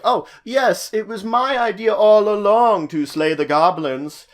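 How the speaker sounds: puffed-up self-important announcement; self-centered boasting. Acted. Selfish patron claiming credit for the goblin hunt, boastful. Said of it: "If someone is very selfish or self-centered".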